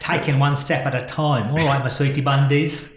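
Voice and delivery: a hammy cockney voice; London accent. Shown as a demonstration. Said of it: "London accent".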